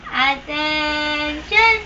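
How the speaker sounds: very slow, drawn-out command; drill sergeant. Pretend. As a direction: stretch the order out like a drill sergeant. Commanding a pet to stand.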